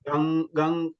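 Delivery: "gang" ending in a held ng from throat and nose; throat nasal. Shown as a demonstration. Teacher asking student to feel the difference, held ng in "gang". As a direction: hum the ng at the back of "gang". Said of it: "I can feel here".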